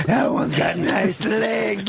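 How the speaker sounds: drawn-out leering line, leaning close; slow creepy leer. Retold or imitated. Jimmy leaning into his face, slow leering line. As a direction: say it slowly like a leering stranger. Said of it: "He goes".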